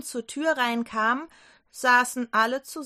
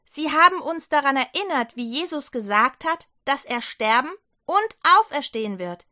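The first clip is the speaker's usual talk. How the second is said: excited telling; 3 semitones higher, 4 dB louder than usual. Acted. Johanna tells the doubting disciples, eager and louder. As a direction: pour out the news.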